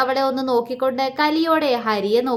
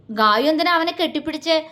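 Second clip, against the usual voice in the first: put-on childish sulk; 4 semitones higher than usual. Jealous man sulks childishly.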